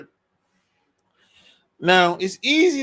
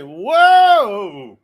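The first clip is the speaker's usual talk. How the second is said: mock shock; 4 semitones higher, 6 dB louder, slower than usual. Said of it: "I'm like".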